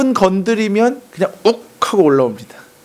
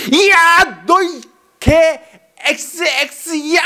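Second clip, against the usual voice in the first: furious outburst; 9 semitones higher, much slower than usual. Shown as a demonstration. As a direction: explode in rage at him. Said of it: "따발총으로 엄청난 스피드로 막 쏴대잖아요". (높고 크게 퍼붓는 분노의 고함)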